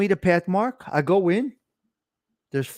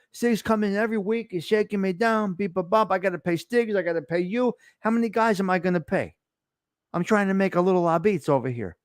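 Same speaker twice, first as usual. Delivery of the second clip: a slightly higher, pleading complaint, stumbling over names; complaining debtor; 4 semitones higher than usual. Retold or imitated. A debtor whining to Skins about too many shakedowns, lightly pleading. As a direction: plead that everyone's shaking you down.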